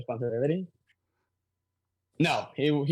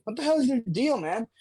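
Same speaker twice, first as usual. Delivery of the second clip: raised, annoyed shout; angry shop owner; 5 semitones higher, faster than usual. Retold or imitated. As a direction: yell at the bystander. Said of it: "the owner of the bodega was like".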